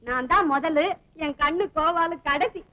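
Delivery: loud heated argument; loud quarrel. Acted. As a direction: shout back at each other. Couple quarrel loudly. (கணவன் மனைவி உரத்த சண்டை)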